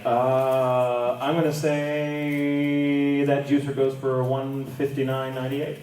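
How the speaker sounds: slow, drawn-out hesitant guess; drawn-out character bid. Acted. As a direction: stretch the Uh and say, then bid. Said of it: "like, Kyo-Yo being like".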